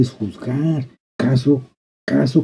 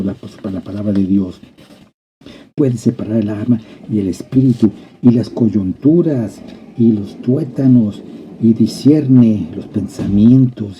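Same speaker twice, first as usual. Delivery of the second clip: normal talking voice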